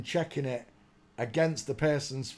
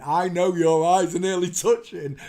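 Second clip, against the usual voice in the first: put-on Geordie accent; 3 semitones higher, 6 dB louder than usual. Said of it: "a Geordie accent going".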